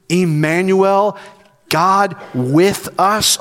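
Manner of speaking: slow reverent. Shown as a demonstration. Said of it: "Oh, I love that word with".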